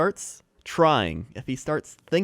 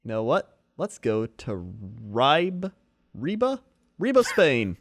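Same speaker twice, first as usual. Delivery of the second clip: light TV weather forecast; weatherman; 4 semitones higher than usual. Pretend. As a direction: deliver the forecast like local TV. Plays a weatherman.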